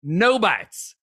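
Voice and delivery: put-on old bushwhacker voice. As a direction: read it as a grizzled woodsman, baffled. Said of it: "use a different voice for each reviewer".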